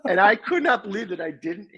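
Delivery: high, laughing disbelief at oneself; laughing while talking. Real, not acted. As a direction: tell it through helpless laughter. Laughs through end of own story.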